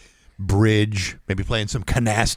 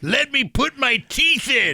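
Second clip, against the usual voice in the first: laughing; 11 semitones higher than usual. Acted. Laughing, playing old woman.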